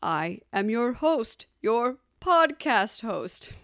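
slow, drawn-out spooky "host"; menacing ghost host. Acted. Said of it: "where you hear my spooky voice".

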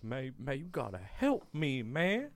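lightly voiced pleading inmate; imitated inmate. Inmate asking guard for help, lightly mimicked plea. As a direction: imitate a helpless inmate's appeal. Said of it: "He's just like".

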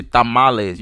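TAMALES with open Spanish vowels, imitated accent; mock Mexican accent. Calling out Americans without the accent, TAMALES in mock Mexican accent. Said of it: "have an accent like that".

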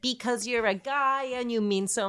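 high, excited goofy rant; goofy hyped teasing about the name; hyped silly rant. Pretend. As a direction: ramp up the silliness, voice high.

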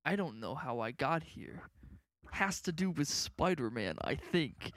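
mock-calm villain, no big deal; nonchalant Michael Keaton. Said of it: "very calmly, very nonchalant".

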